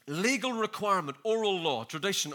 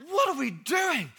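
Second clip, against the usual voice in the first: slow, high, laughing; laughing question; 9 semitones higher, 3 dB louder, slower than usual. Real, not acted. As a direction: ask it through a laugh. Preacher repeats question, laughing.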